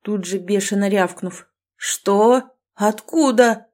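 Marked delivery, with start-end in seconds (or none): 1.8-3.7 loud, higher glad cries; joyful shout. Acted. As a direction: shout with relief. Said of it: "обрадованно закричала я". (радостный крик)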